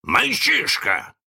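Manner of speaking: high, drawn-out question; guessing pirate. A narrator's reading. Pirate captain quizzes the boy, probing. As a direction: stretch out the guess, pitched high.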